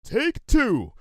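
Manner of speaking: high, loud command shout. A narrator's reading. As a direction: yell the order to fire. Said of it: "Lyra shouted".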